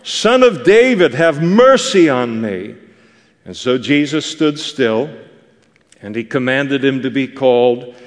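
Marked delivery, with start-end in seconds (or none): 0.0-2.7 high plea, easing off at the end; impassioned retold cry for mercy. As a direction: call out insistently, then let it settle. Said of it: "he cried out all the more".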